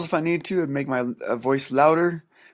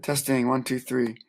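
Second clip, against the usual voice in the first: mic check. Shown as a demonstration. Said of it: "adjust the recording level of it".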